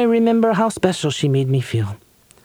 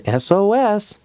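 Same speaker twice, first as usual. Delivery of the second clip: calling out; 5 semitones higher, slower than usual. Acted. Host calls out, kids answer.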